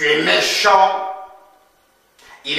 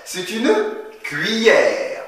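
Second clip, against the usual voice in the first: slow model phrase; 4 semitones higher than usual. Shown as a demonstration. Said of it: "Allez, répète".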